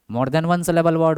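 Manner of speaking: very slow, word by word; slow dictation. Shown as a demonstration. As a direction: dictate it so students can write. Teacher dictates the term again. (धीमे बोलकर लिखवाना)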